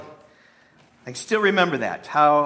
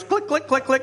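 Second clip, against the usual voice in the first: high, quick click click; imitated stick clicks; 9 semitones higher than usual. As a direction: tap the clicks out like sticks knocking. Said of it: "the shepherd goes".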